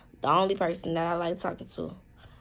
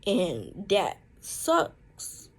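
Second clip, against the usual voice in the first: choked up; much slower than usual. Real, not acted. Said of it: "I'm trying not to cry".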